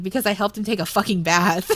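words broken by laughter; can't stop laughing while quoting; laughing through it. Real, not acted. Fan quoting the bath line while laughing.

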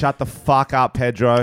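playful classroom scolding; mock telling-off. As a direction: pretend to tell off a heckling pupil. Teacher mock-scolding a pupil.

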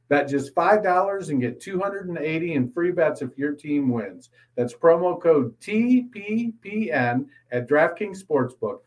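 brisk, scripted sportsbook promo read; announcer-style promo with legal disclaimer; sponsor ad read. Acted. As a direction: read the ad copy cleanly, crisply spelling out codes. Reads a sponsor ad.

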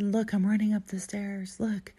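lifted, eager call for attention; retold showing off. Telling a texting friend about the stairs, excited showing off.

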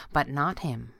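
usual speaking voice

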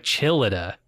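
lightly imitated Transylvanian accent on "Chillida", said as chill-ih-dah; a half-hearted Transylvanian accent stretching "Chillida"; Nick Cage Transylvanian accent. Copying how the Dracula actor says cheerleader, mild Transylvanian accent. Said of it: "I can't do a Transylvanian accent".

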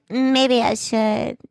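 halting, stretched-out hesitation; mock awkwardness. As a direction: imitate an awkward exit line, drawn out with a pause. Acts out awkward Anna.

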